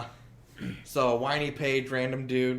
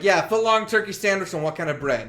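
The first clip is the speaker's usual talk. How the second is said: higher, louder, brusque counter service; shitty attitude; 5 semitones higher, 3 dB louder than usual. Retold or imitated. Sandwich maker taking an order at closing, shitty attitude. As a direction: take the order with mock impatience. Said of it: "saying it in a shitty way".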